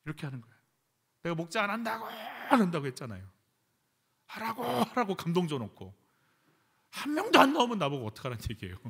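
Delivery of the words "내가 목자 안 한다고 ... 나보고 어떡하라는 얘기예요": complaining prayer demo. Shown as a demonstration. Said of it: "이렇게 기도해야 되는 거예요".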